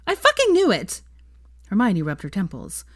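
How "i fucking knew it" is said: much higher and louder, gleeful; triumphant outburst. Acted. Veronica learning she guessed right, loud gleeful outburst. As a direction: shout it like you just won.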